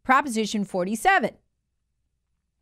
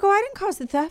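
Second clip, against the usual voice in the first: mocking Newsom; 10 semitones higher than usual. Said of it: "and he's like".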